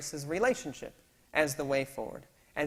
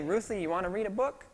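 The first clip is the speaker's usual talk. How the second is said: laughing offer; 6 semitones higher, 3 dB louder than usual. Retold or imitated. Dad giving in with laugh.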